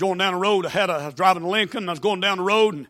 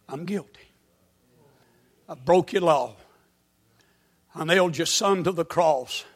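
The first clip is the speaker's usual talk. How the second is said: humble prayer; 3 semitones lower than usual. Pretend. Sinner's prayer voiced.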